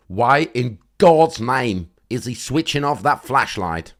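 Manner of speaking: loud, baffled complaint climbing in pitch; exasperated disbelief. Real, not acted. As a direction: demand to know why, incredulous. Baffled rant at flashlight going off.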